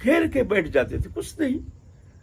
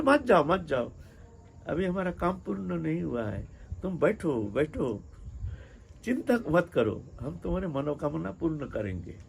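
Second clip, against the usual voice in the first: soft, soothing imitation of the saint; gentle reassurance; 6 dB quieter than usual. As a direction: ease off and reassure her quietly. Saint reassures woman about to leave.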